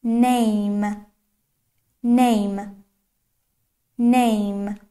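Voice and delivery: Name with a drawn-out "ay" vowel; Name said singly, long "ay" before the m; long A sound. Shown as a demonstration. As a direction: stretch the "ay" in Name. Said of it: "صدای A".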